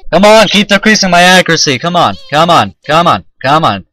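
insistent, repeated urging; pleading cheer that eases slightly as it repeats; urgent pleading. Real, not acted. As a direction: egg it on, starting high and loud. Urging the game during battle.

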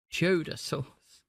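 slow, drawn-out cheddar sauce with a light Indian lilt; mock accent, slow and savoured; put-on Indian accent. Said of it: "I do not know why I am starting to speak like this".

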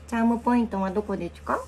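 put-on baby talk.

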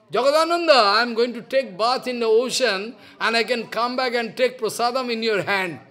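calling out. Retold or imitated. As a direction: coax him out loudly. Mahaprabhu pleading through the door.

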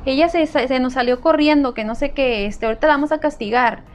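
high, pushy fake-mother voice; lying stranger. Kidnapper telling the helper to move aside, high and pushy. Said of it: "decía".

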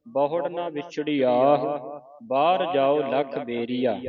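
measured recitation with drawn-out line endings; scripture recitation. Shown as a demonstration. Teacher reads scripture for students to follow, measured recitation.

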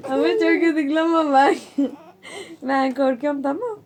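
laughing, half-crying while tickled; being tickled. Real, not acted. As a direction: squeal through tickle laughter. Aunt being tickled by child.

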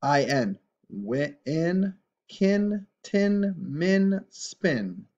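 enthusiastic read-along. Shown as a demonstration. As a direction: call each word out brightly for kids to copy. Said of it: "Try and say these with me".

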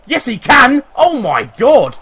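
high, loud burst of disbelief; excited shout. Real, not acted. Gamer reacting to a cross nearly going in, excited shout. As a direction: shout it out as the chance explodes. Cheers a near goal in game.

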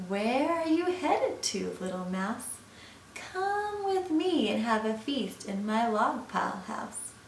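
lightly voiced snake, lilting invitation; coaxing snake. Snake invites little mouse to a feast, coaxing. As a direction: coax the mouse in with a swooping lilt.

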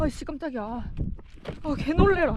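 jumpy startled outburst. Real, not acted. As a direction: cry out in sudden fright. Startled by noise above.

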